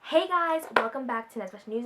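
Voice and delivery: bright, fast show host opener; vlog intro voice. Shown as a demonstration. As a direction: greet viewers like a show host. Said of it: "I miss doing that so much".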